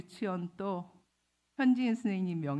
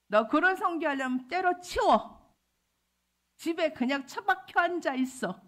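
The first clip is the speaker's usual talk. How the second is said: high, loud scolding order; sharp, raised-voice rebuke, retold; angry husband; 8 semitones higher, 5 dB louder than usual. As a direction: imitate an exasperated husband telling her off. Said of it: "화를 별로 안 내요".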